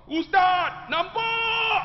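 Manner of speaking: very high, loud excited cry; amazed shout. Retold or imitated. Pak Long finally sees the Kaabah, amazed shout. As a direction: shout out in astonished joy.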